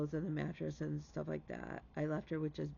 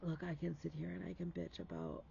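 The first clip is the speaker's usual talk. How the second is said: ordinary talk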